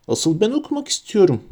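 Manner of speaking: high, indignant protest; angry. A narrator's reading. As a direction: insist crossly on your own right. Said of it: "dedi öfkeyle".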